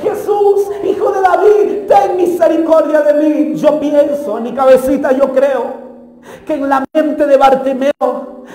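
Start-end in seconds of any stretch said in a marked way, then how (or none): 0.0-3.5 a restrained retold shout, pitched up at first; imitated pleading cry. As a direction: imitate a beggar calling out to Jesús. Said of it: "una y otra vez gritaba".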